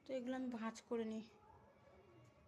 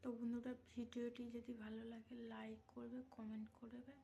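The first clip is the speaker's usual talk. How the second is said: speaking softly; 5 dB quieter than usual. Real, not acted. Mother asks viewers to subscribe while her son sleeps, speaking softly. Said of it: "আস্তে আস্তে কথা বলছি তোমাদের সঙ্গে".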